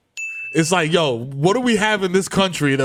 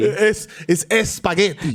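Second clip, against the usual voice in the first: put-on Dominican accent; much slower than usual. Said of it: "you sound like a villain in Doctor Mario".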